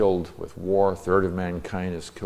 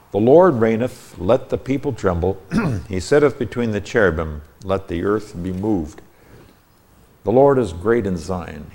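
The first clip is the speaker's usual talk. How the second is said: measured, declaimed psalm reading; scripture reading. Real, not acted. Teacher reads the King James psalm to listeners, formal scripture reading. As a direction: read it out as solemn Bible verse.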